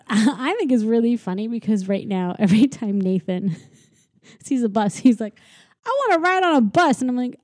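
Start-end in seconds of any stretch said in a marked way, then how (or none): 5.9-7.0 put-on high, eager little-kid plea; eager child voice. Mom imitating her son wanting the bus, high eager plea. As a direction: beg like an excited toddler.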